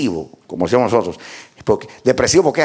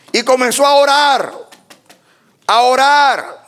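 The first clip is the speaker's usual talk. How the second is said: raised, declaimed phrases with long pauses; fervent preaching; 12 semitones higher, 3 dB louder than usual. Real, not acted. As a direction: build to slow, high-pitched proclamation. (predicación ferviente, voz elevada)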